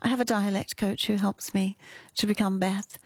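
lightly imitated demure actress; a hint of sweet innocence, put on; butter-wouldn't-melt voice. Coach mimics an actress off-screen, lightly put-on innocent voice. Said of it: "she speaks like this, like butter wouldn't melt".

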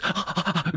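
quick delighted gasp; short excited intake of breath; dog's happy gasp. Pretend. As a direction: gasp in joy as the dog. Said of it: "And the dog goes".

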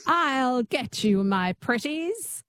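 slow, lightly twangy witch attempt; Wicked Witch. Shown as a demonstration. Pupil copies coach's twang, slow witch voice. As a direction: copy a witch voice, drawn out. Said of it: "Just say that".

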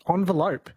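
"envelope" starting like "on"; ON pronunciation. Shown as a demonstration. Host reconsidering the debate, ON-velope. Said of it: "No one says on".

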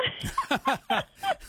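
high, delighted laugh; real laugh. Real, not acted. Grandmother laughing at granddaughter's clever idea, high delighted laugh. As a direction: burst out laughing at the memory.

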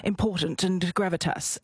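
lightly put-on English accent, measured and weighty; mock-grave English accent for an epic. Shown as a demonstration. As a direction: play the serious epic English actor. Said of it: "the default accent of epic".

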